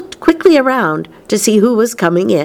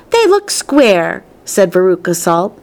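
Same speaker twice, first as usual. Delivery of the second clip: insistent contradiction; 6 semitones higher than usual. A narrator's reading. Veruca contradicts Wonka about the candies, insistent. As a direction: dig in, stretching each word.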